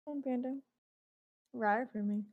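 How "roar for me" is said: seductive. Pretend. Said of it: "I didn't mean for that to sound seductive".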